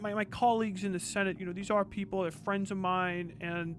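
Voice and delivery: a hint of a stammering politician dodging the question; mock politician. Mocking a politician's evasive answer.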